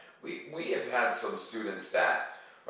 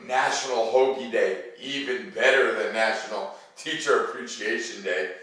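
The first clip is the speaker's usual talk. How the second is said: excited; 2 semitones higher, 4 dB louder than usual. Real, not acted. Excited discovery with gasp.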